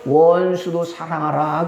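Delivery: low, slow divine command; God commanding. Acted. Preacher quotes God's command to believers, low and slow. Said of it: "하나님은요".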